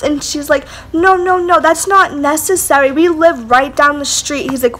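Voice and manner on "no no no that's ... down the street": higher-pitched hurried denial, easing down; mock pleading. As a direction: imitate a friend talking her way out. Drunk friend talks man out of police.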